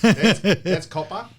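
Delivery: loud, slow hammed-up Italian; a loud, stretched caricature of an Italian accent; mock Italian accent. Mocking the Italian accent loudly.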